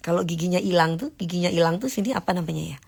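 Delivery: quick unvoiced whisper, searching for the word; fast whispered aside, trying to recall a word; whisper to herself. Real, not acted. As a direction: mutter it to yourself as you grope for the word.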